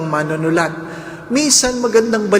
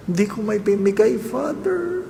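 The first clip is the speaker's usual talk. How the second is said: friend's reply; 5 semitones higher, 4 dB quieter than usual. Retold or imitated. Friend answers the priest.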